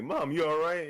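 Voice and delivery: a hint of a kid checking on mom; imitating concerned kid. Kid asking his crying mom, lightly imitated concern. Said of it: "some kids talking about".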